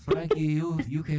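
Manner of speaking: halting mock-French plea; hammy Frenchman; fake French accent. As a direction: stumble into a French-accented challenge. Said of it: "That was a fake accent".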